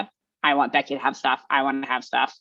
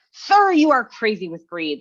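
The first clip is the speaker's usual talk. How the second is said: slow, raised, louder rebuke; Lorax scolding; 5 semitones higher, 4 dB louder than usual. Acted. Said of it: "the Lorax is sitting there going".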